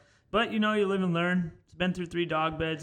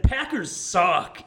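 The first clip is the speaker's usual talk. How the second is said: slow, louder mock yell; retold yell; 5 dB louder, much slower than usual. Repeating what was said to him, mock yell. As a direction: stretch it out as a blunt jeer. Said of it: "turned to my left and yelled at him".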